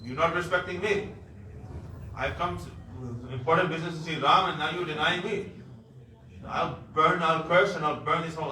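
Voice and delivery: the sage threatening to burn everything; angry threat. Acted. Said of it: "He became very angry".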